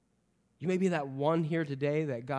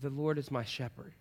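softer, hesitant shy recital; nervous and shy; 3 semitones lower, 7 dB quieter than usual. Retold or imitated. Shy boy reciting to the class, soft and nervous. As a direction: barely get the words out, shy. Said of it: "very nervousness".

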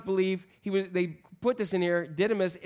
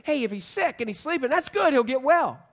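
higher-pitched, upbeat disciples; bright relief; 5 semitones higher than usual. Acted. Disciples answering Jesus about their sick friend, relieved. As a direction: jump on the good news, pitched up. Disciples cheerfully seizing on good news.

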